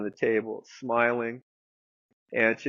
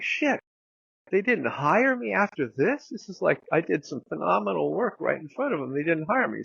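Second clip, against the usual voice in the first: high, exasperated inner voice; replaying his own shocked thoughts, higher; stunned disbelief; 5 semitones higher than usual. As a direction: pitch up in baffled disbelief. Inner disbelief after being left.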